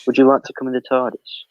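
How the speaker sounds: put-on Doctor Who-style English; hammed-up generic British accent; stereotypical British accent. Shown as a demonstration. Invites streamers aboard, stereotypical British accent. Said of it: "I'm rubbish at a generic British accent".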